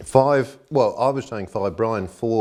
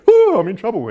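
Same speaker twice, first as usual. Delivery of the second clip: mock dread; 11 dB louder than usual. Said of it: "And you go".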